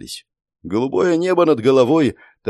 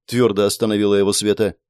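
plain reading voice

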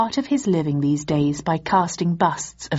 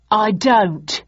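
unconvincing shrug; 4 semitones higher, 4 dB louder than usual. Acted. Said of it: "shrugged Sturmy in an unconvincing manner".

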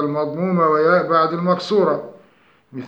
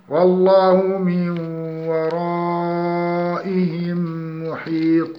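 slow melodic tajweed chant; Quranic recitation; slower than usual. Shown as a demonstration. Tajweed teacher reciting an example verse slowly.

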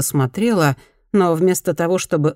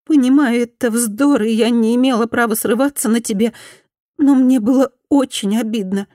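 higher, pleading former bully; repentant woman; 7 semitones higher, 3 dB louder than usual. Acted. Former bully apologises to Fumi, higher pleading voice. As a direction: beg forgiveness in a higher voice.

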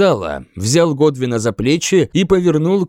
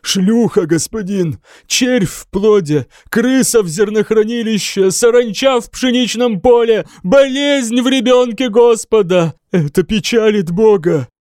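building frenzy; 7 semitones higher than usual. A narrator's reading. Monk ranting to the king in rising frenzy. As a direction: work up into a frantic rant. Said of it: "Пробормотал монах и заплакал".

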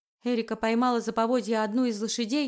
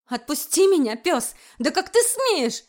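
furious protest; 5 semitones higher, 5 dB louder, slower than usual. Acted. Erika struggles against his grip.

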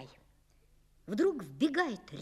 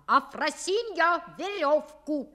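calling out; 4 semitones higher, 4 dB louder than usual. Acted. Father calling the maid.

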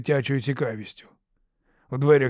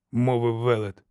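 ordinary delivery, nothing marked

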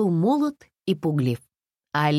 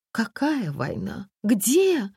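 gasping alarm; 7 semitones higher, much slower than usual. A narrator's reading. The frightened woman reacts to news of war, gasping. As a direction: gasp in disbelief. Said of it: "ахнула женщина".

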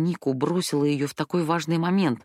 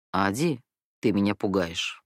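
calm; 7 semitones lower than usual. A narrator's reading. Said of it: "спокойно сказала Вера".

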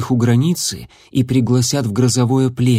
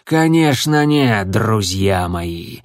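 approving; slower than usual. Acted. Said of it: "одобрительно кивнул ему Звездоцап".

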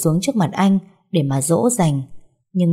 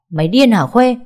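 higher, louder furious yell down the phone; angry shout; 5 semitones higher, 4 dB louder than usual. Acted. The ex-husband yells at Khuê over the phone, furious. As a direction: snap at her in rage. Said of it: "hét lớn qua điện thoại".

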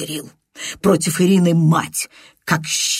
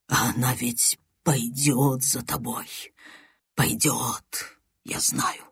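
hushed dread; 4 semitones lower, 7 dB quieter than usual. Acted. Andrei's confession continues hushed.

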